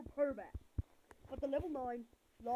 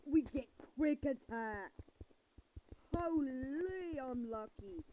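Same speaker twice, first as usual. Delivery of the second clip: excited; 6 dB louder than usual. Real, not acted. Good luck drop.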